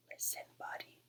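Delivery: breathy hushed whisper. Acted. Parents whisper to Buddy, hoping he'll listen. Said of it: "They tried whispering".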